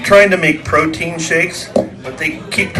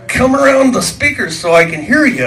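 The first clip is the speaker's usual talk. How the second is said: yelling over the band; 10 semitones higher than usual. Retold or imitated. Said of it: "and I went".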